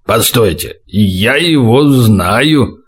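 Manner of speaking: low, very slow, confused voice; slow, bewildered. A narrator's reading. Saturn recognizes the prisoner, slow and bewildered. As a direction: drag the words out as it dawns on you. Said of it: "медленно произнёс сбитый с толку Сатурн".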